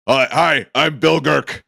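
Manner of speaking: loud, high half-orc hello; half-orc helper. Acted. Half-orc pamphlet helper introduces himself, loud and high. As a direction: call out eagerly as the half-orc. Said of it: "the half orc who's next to you".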